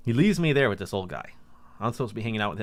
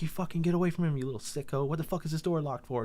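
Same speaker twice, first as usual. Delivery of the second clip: retold angry yell; 7 semitones higher than usual. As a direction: imitate a friend telling someone off. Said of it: "He fucking yelled at the guy".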